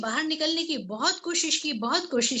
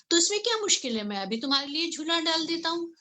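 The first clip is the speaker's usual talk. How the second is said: eager male sparrow; 3 semitones higher, faster than usual. Acted.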